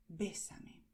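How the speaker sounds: "bésame" with the É clearly stressed. Shown as a demonstration. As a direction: hit the first E of "bésame". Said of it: "aquí estás destacando esta E". (acento en la E de "bésame")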